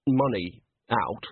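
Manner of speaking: tentative, lingering on the last words; hesitant, savouring. Acted. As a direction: stammer towards a hope, then relish it. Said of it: "Bucket hesitated, savouring the idea".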